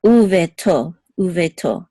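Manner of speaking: Uveto with the stress on its last syllable, to; stress on final to. Shown as a demonstration. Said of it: "the accent is on to".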